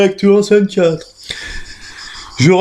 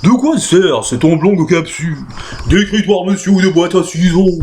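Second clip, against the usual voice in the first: curious. Acted.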